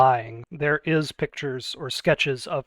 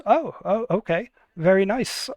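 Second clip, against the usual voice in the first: polite surprise; 5 semitones higher than usual. Acted. Artificer reacts, politely taken aback.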